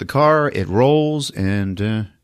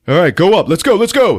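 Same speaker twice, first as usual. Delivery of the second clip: high, loud hurrying calls; acted-out rallying shout; mock urgency; 8 semitones higher, 4 dB louder than usual. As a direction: urge them onward in character. Urgent climbing order, retold.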